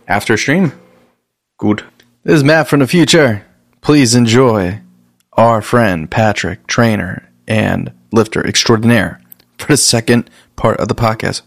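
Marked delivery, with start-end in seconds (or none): 2.2-11.4 slow, drawn-out show intro; announcer voice. Acted. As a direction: announce it like a host link. Recorded intro from the future.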